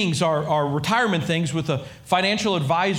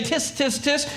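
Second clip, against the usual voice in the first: scolding tut; 5 semitones higher than usual. Retold or imitated. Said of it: "I'm not here to say".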